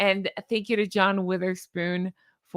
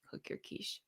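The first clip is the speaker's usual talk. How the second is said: breathy unvoiced whisper; 6 semitones lower, 21 dB quieter than usual. Shown as a demonstration. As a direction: whisper it right at the mic. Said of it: "my crazy thing at the end".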